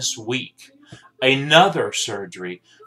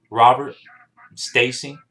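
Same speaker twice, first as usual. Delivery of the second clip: calling out a name; 7 dB louder than usual. Real, not acted. Calling out to his brother.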